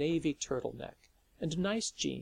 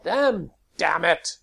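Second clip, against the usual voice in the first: higher, louder shout into the dark; 5 semitones higher, 11 dB louder, slower than usual. A narrator's reading. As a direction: call out sharply to the night. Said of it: "He turned and shouted into the growing dark".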